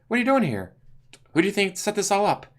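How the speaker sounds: high put-on villain voices. Deadshot questioning Joker, high put-on voices. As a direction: question and gloat in character.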